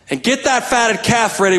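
dad calling out. Retold or imitated. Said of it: "the dad yelling back on".

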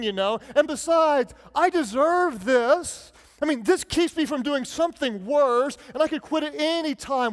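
lightly voiced self-justifying addict, mock sincere; sarcastic mock pleading; sarcastic excuse-maker. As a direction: play the whiny rationalizer, tongue in cheek. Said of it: "being sarcastic and saying the opposite".

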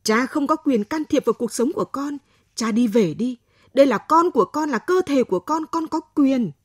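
loud furious defiance, voice rising; angry outburst. Acted. Daughter defies father at the clinic, furious loud outburst. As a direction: fling it at him, refusing his control. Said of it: "Tôi đùng đùng nổi giận".

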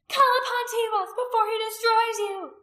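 high, screamed warning; ranting. A narrator's reading. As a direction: rant wildly at the fleeing crowd. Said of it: "ranting at them".

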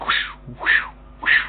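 whooshes of passing cars; imitated whooshing. Explaining the open window, imitating cars whooshing by. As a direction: mimic cars going past with whooshes. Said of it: "they make noise".

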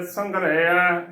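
ਸੰਘਰਿਆ with a short i and open ending; careful teacher's ਸੰਘਰਿਆ, short vowel before the ending; correct pronunciation. Shown as a demonstration. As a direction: say ਸੰਘਰਿਆ as sangh-re-aa, no long ee. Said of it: "ਇਸ ਦਾ ਸ਼ੁੱਧ ਉਚਾਰਨ ਹੈ".

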